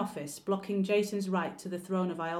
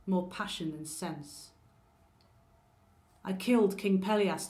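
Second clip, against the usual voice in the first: betrayed wife's monologue. Acted. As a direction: accuse the husband who abandoned her, venom under control. Betrayed wife's bitter monologue to Jason.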